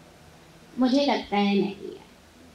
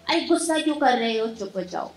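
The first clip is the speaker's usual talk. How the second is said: angry scolding; faster than usual. Shown as a demonstration. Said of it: "गुस्से में ही बोल रहे हैं".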